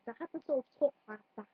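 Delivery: quick, lightly put-on Scouse; Liverpool accent. Shown as a demonstration. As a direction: lollipop lady's Liverpool accent. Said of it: "the lollipop lady".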